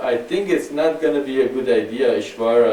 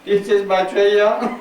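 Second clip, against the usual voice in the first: higher, slow robot voice; 10 semitones higher, 7 dB louder, slower than usual. Pretend. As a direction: speak like a stiff robot. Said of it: "I can even talk like a robot".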